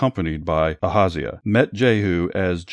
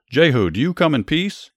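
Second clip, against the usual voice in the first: much higher, louder call across the field; yelling; 9 semitones higher, 4 dB louder than usual. Acted. King Joram calling out to Jehu from his chariot, yelling. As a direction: yell the question out to an approaching rider. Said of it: "Joram yelled".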